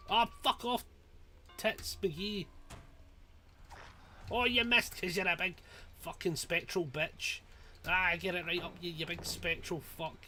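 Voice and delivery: mock the killer who just missed; taunting. Real, not acted. Gamer jeers at the killer who missed, taunting.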